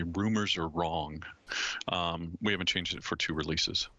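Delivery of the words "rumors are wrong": mock-dramatic, slowed "Rumors are wrong"; dramatic declaration. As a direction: announce it like a grand verdict. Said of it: "we'll do it the dramatic way".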